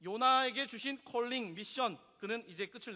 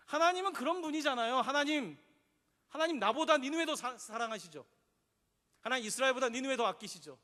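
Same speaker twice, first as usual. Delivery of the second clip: angry complaint to God; 4 dB louder than usual. Retold or imitated. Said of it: "여전히 화가 나 있어요".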